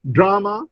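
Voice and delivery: "drama" stressed on DRA-; stress on first syllable. Shown as a demonstration. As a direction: say "drama" as DRA-ma, weak ending. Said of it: "the stress is on the first syllable".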